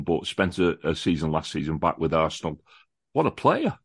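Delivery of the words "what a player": high, thrilled burst of admiration; excited praise. Real, not acted. Fan to radio host, raving about a signing, excited. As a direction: gush about him like a delighted fan.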